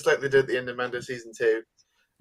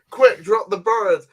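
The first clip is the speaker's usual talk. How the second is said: higher, louder and slow, barking the order; mock battle command; 6 semitones higher, 7 dB louder, slower than usual. Host acts out a commander launching the pterodactyls, hammed-up shout. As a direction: play the officer ordering the drop.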